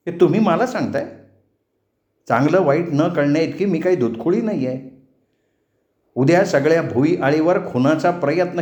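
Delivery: indignant heroine issuing a warning; defiant young woman. Acted. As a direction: stand up to the village chief. Narrator plays Hema defying the patil.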